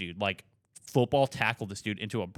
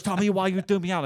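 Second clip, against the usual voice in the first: high-pitched mock Irish demand; imitated Irish drunk; 9 semitones higher, 4 dB louder than usual. Ejected drunk demanding a reason from staff, high imitation. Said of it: "full-on Irish guy".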